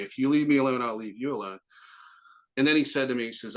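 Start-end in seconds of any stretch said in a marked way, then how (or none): 0.0-1.6 condescending. Retold or imitated. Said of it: "in a condescending way".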